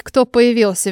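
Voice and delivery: usual speaking voice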